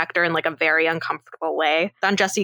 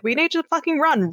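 mock panic; 9 semitones higher than usual. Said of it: "And then Hector's like".

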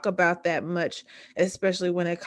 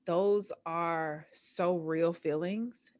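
softer and slow, leaning on those; soft validation; 7 dB quieter, much slower than usual. Real, not acted. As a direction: gently reassure her that those feelings are real. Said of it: "just to validate you".

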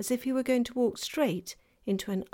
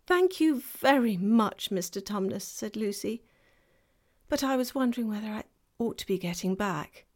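put-on girl's voice; 2 semitones higher than usual.

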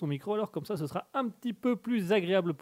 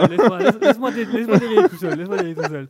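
loud; 3 semitones higher, 9 dB louder, faster than usual. Pretend. Mock award speech, ramping up.

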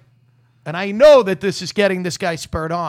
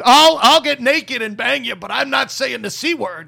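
loud, hammed-up porn star refusal; a lightly voiced porn star, louder; mock porn star; 4 semitones higher, 5 dB louder than usual. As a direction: play a brash porn star drawing a line. Imagined porn star line.

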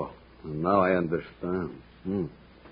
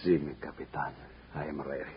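hushed; 5 semitones lower, 13 dB quieter than usual. Acted. Accomplice answers in dark room.

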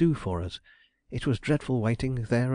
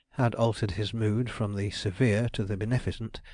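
usual speaking voice

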